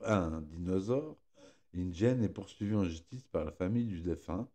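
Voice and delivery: ordinary talk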